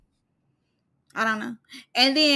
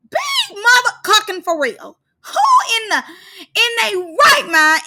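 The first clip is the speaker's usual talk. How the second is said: high, cracking half-sobbing yell; mock hysterical outcry; 9 semitones higher than usual. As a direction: wail in exaggerated disbelief. Mock outrage at Natalie's request.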